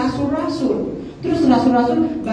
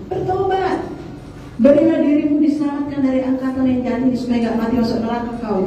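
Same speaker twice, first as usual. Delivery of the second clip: urgent preaching; faster than usual. Retold or imitated. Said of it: "Kata Petrus".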